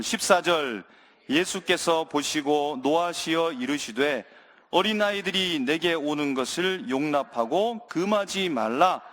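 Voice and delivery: measured, deliberate Bible reading; formal, evenly paced recitation; scripture reading in unison. Real, not acted. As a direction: read the verses out solemnly for a congregation to follow. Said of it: "한 목소리로 읽겠습니다".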